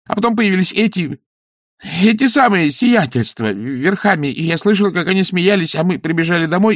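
high, anxious peasant voice; frightened villager gabbling; nervous weaver. Acted. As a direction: babble the story out scared. Weaver keeps telling.

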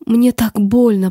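pained. Acted. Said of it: "проговорила она".

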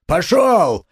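forceful command; shouting. A narrator's reading. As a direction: drive the crowd back. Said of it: "разгонял он теснившихся кругом людей".

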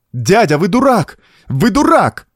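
high, forceful cry at him; beside herself, crying out; despairing exclamation. A narrator's reading. Niece to her uncle, beside herself with despair. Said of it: "вне себя от отчаяния воскликнула Франсуаза".

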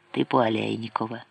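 ordinary delivery, nothing marked

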